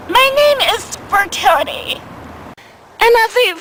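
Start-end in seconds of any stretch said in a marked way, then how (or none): 0.1-2.0 put-on lightly higher young woman voice; girl's voice. Girl telling the comic her name, lightly higher. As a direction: say it like a sweet proud girl. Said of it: "get this, she said".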